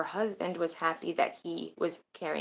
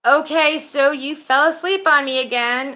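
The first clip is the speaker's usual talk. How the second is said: much higher and louder teasing accusation; teasing friend; 9 semitones higher, 11 dB louder than usual. Retold or imitated. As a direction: call her out, half laughing. Friend catching her asleep again.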